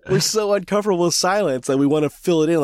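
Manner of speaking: amused at how we rush to fill silence; chuckling through the line; laughing while talking. Real, not acted. Laughing about awkward silence.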